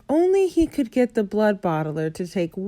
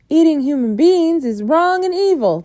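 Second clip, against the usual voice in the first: higher, louder firm rebuke; firm BFG; 8 semitones higher, 6 dB louder than usual. A narrator's reading. BFG rebuking the Bloodbottler, loud and firm. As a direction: stand firm on right and wrong.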